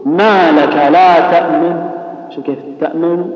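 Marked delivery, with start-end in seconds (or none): 0.0-1.9 ما لك لا تأمن recited slowly, the first noon hurried; ikhtilas recitation. Shown as a demonstration. Teacher showing students ikhtilas, quick first noon in تأمن. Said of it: "تسرع في النون الأولى". 2.8-3.2 تأمن softer, with a quick partial vowel on the noon; lowered ikhtilas. Shown as a demonstration. Teacher telling students to watch, lowered quick noon in تأمن. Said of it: "وخفض صوتك قليلًا".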